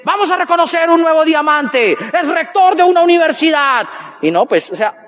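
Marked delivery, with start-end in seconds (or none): 0.0-3.9 mock emcee announcement, projected and stretched; event announcer. Presenter introducing a new diamond, hyped announcing. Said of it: "Como a las diez y media dicen".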